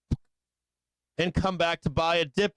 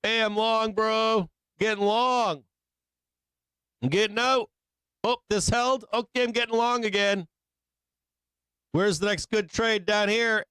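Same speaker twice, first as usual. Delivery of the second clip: lightly voiced jumpy trader, pitched higher; mock trader; 5 semitones higher than usual. Trader narrating his own flip-flopping trades, lightly mocked. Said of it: "So where are you as a trader?".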